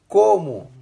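sharp high indignant question. Real, not acted. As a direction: snap back in disbelief. Indignant reaction.

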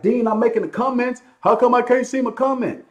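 high-pitched imitation of a commenter; mock complaining viewer. Host mimicking viewers missing their comments, mock complaint. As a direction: pitch it way up, pleading in mockery. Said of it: "I know you're like".

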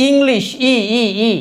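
English, then its "i" repeated alone; "i" sound demo. Shown as a demonstration. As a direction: isolate the first vowel "i" of English. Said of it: "ই কিন্তু ইর মতো হচ্ছে".

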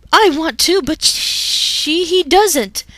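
loud, high indignant retort; two partners retorting at each other. Acted. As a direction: point and blame your partner.

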